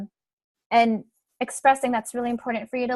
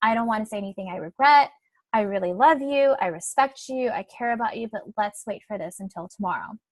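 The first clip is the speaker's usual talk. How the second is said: calm reassurance. Shown as a demonstration. To a pushing partner, calmly reassuring. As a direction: gently hold the line. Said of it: "And, like".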